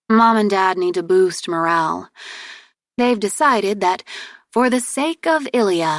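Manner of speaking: grand, proud mock announcement; mock patriotism. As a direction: puff it up like a patriotic speech. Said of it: "I said in mock patriotism".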